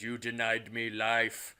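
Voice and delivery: slow, lightly put-on demon voice; a hint of the demon speaking through the wife; weird possessed voice. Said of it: "in a weird voice".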